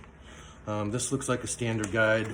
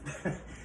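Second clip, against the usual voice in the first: effort grunt; 3 semitones higher, 9 dB quieter than usual. Real, not acted. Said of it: "Forgive the grunting".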